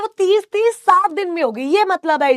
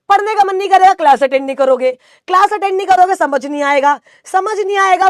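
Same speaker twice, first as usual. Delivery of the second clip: higher, louder teasing lecture urging them to worry instead of study; sarcastic mock advice; 4 semitones higher, 4 dB louder than usual. Teacher teasing students who study instead of worrying, loud sarcastic lecture.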